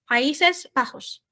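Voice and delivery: Países Bajos with the J said like a throaty R. Shown as a demonstration. Teacher demonstrating Bajos for students, slow and clear. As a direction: say Bajos with a rasped H-like J, slowly. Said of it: "J encare como um R".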